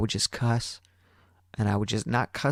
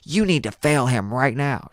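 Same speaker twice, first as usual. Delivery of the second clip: adamant; 4 semitones higher, slower than usual. Retold or imitated. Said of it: "this girl was adamant".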